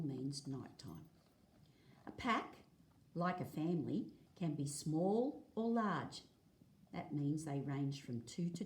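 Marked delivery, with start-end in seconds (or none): 2.1-6.2 clear, lively read-aloud for a class; reading to children. Acted. Teacher reading a dingo book to the class, lively read-aloud. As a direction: read the page out to the kids, a touch brighter.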